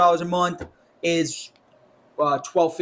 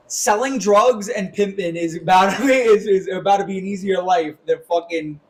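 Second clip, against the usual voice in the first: louder, exasperated rant about the job market; frustrated outburst; 3 semitones higher, 4 dB louder than usual. Real, not acted. Ranting to a podcast co-host about jobs, frustrated and loud. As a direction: vent it, getting louder.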